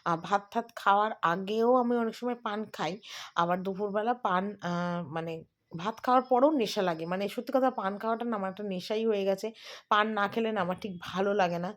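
talking with paan in mouth; chewing paan. Real, not acted. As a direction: speak around a mouthful of paan. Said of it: "আর দেখো মুখে পান দিয়েছি".

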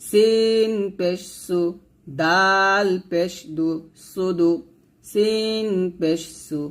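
slow, even recitation of each letter and vowel mark; measured teacher's recitation; spelling drill. Shown as a demonstration. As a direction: chant it out for pupils to repeat. Teacher drills word building.

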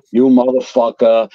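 worked-up Italian-American rant, lightly done; retold hot-tempered outburst. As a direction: act out losing your temper, not full volume. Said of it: "I go into full guinea mode".

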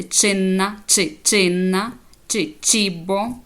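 «чинна» and «чібо» with «чи» isolated between them; teacher's clear ch in «чинна», «чи», «чібо»; ch drill. Shown as a demonstration. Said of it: "Тоді ви читаєте як".

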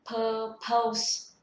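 "purpose" as level "pơ-pâus"; even stress, rhyme the end with "dose"; final S added. Shown as a demonstration. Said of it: "có âm cuối". (đọc sai "purpose" thành "pơ-pâus", có âm S)

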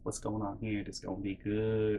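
very soft, gossipy aside to oneself; quietly eager eavesdropper; hushed glee. Retold or imitated. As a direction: relish it under your breath. Eager eavesdropper's private thought.

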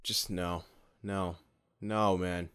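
usual speaking voice

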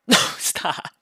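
loud laughing plea to stop; tickled laughter. Acted. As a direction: gasp out words through helpless laughter. Being tickled.

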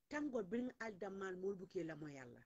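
usual speaking voice

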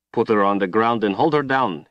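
rough growled order. A narrator's reading. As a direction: growl it at your men. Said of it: "he growled".

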